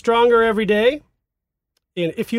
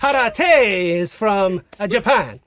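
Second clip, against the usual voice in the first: slow mock Japanese Italian accent; slower than usual. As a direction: Karate said kah-rah-teh in a mock accent. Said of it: "Japanese Italian".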